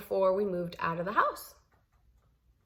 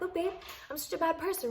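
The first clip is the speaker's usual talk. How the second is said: sarcastic; 8 semitones higher than usual. Retold or imitated. Sarcastic to husband with seeds.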